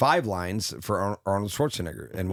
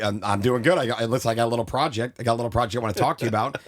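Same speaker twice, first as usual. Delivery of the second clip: Vince Vaughn impression; 3 semitones higher, faster than usual. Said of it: "I just went right into Vince Vaughn".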